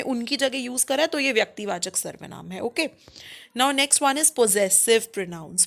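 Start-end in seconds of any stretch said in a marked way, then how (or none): 3.6-5.7 very slow, spaced words; slow announcement. Shown as a demonstration. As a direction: announce the next topic slowly. Teacher announcing next topic slowly. (धीरे-धीरे घोषणा)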